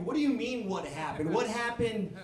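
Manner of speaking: high, loud, laughing outburst; rising lovesick frustration, half laughing; exasperated lovesick rant. Retold or imitated. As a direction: vent like a heartbroken fool. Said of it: "I'm like".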